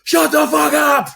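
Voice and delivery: big slow high shout; roaring at the neighbours' yapping dog; yelling at the dog. Retold or imitated. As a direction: bellow it out the front door. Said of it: "just go like".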